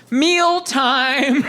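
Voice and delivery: sing-out call to the cats; wife's recorded voice. Retold or imitated. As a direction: imitate a chirpy recorded announcement. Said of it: "My wife's voice went off".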